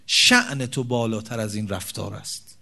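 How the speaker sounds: husband gently reminding his wife of her worth; tender advice to wife. Shown as a demonstration. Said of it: "بگین".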